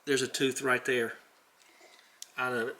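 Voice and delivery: talking around a flashlight; flashlight in mouth. Real, not acted. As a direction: mouth propped open by a flashlight. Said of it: "I'll just put the flashlight in my mouth".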